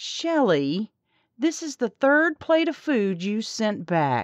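cloyingly, syrupy, sickly sweet tone. A waitress addresses a customer who sent back a third plate, sickly sweet tone. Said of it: "in a sickly sweet tone".

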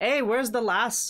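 high-pitched call. Voicing a dwarf who shouts after his wife as she walks away: shouting after someone. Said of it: "he shouts after her".

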